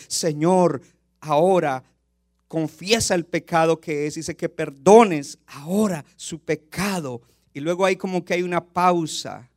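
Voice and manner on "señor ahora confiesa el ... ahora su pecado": loud, slow, earnest plea; pleading prayer. Acted. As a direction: beg God for pardon, slowly and louder. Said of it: "Y él sube".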